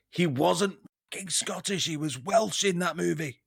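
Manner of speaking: imagine the actor objecting to the impression; Bill Nighy. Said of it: "Bill's gonna listen to that and go".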